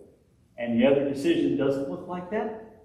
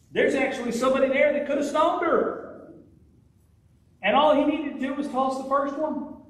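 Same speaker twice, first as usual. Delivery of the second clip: higher and louder, ringing out to the congregation; full-force preaching; 7 dB louder than usual. Acted. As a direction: proclaim it with fire from the pulpit.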